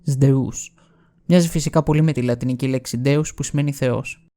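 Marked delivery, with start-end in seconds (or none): 0.0-0.7 Σδεούς as "zde-us"; ancient Greek pronunciation. Shown as a demonstration. Narrator showing the old name of Zeus, Σδεούς as zde-us. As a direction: open Σδεούς with zd and glide to us. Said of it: "θα την πρόφεραν Σδεούς".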